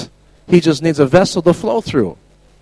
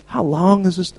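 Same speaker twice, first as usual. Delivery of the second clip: compassionate; 3 semitones higher, 5 dB quieter than usual. Retold or imitated. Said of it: "He's having compassion".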